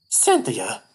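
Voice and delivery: loud sharp call of a name; calling Cynthia. Acted. Player calls out to Cynthia, sharp and loud. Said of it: "you're reading it like".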